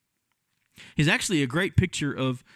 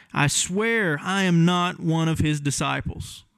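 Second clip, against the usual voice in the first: slow, insistent oath, a little higher; swearing denial; 4 semitones higher, slower than usual. Acted. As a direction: plead it slowly like a cornered kid. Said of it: "like we tend to do when we're kids".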